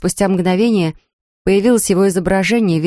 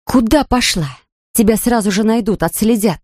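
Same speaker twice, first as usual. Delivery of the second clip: angry yell; 4 semitones higher than usual. Acted. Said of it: "заорала на неё рассерженная Анфиса".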